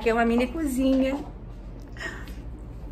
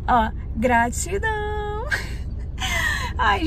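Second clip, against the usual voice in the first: tearful gratitude; 11 semitones higher, much slower than usual. Real, not acted. Vlogger to her followers, crying with joy. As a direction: voice cracks high into a teary laugh. Overcome with gratitude about dream.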